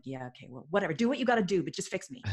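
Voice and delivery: eye-rolling, grudging compliance; dismissive. Retold or imitated. Client rolling eyes at coach's methods, dismissive. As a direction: brush it off with an impatient eye-roll. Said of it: "rolling my eyes".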